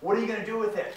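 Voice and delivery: put-on high, loud pep talk to kids; excited. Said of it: "I'm all excited".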